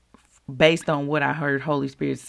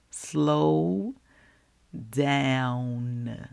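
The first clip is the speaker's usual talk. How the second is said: drawn-out, separated 'Slow... Down'; slowed right down; 3 semitones lower than usual. Shown as a demonstration. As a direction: stretch 'Slow', long pause, then drawn-out 'Down'. Repeats title, acting out slowing.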